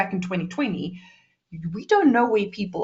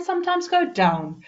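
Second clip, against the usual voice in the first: voice going down; 9 semitones higher than usual. Shown as a demonstration. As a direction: pitch drops at the end. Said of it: "with intonation to make your voice".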